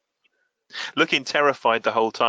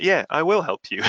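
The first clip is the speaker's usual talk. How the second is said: high, louder, flustered yes; panicked agreement; 7 semitones higher, 4 dB louder than usual. Retold or imitated. Diablo caves in panic to Lily's threat, voice jumping high. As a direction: blurt it out in a panic. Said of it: "he starts having a freak out".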